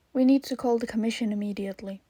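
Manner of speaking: fast, tense whisper; urgent whisper. Acted. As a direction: hurry it out under your breath. Urgent call to the commission.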